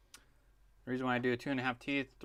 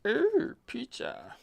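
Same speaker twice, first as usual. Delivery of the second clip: excited; 12 semitones higher, 3 dB louder, much slower than usual. Real, not acted. Excited about food arriving.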